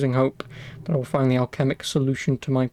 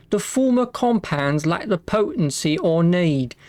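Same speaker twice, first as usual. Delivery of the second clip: put-on Victorian accent; 3 semitones higher, slower than usual. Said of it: "my ye olde Victorian accent".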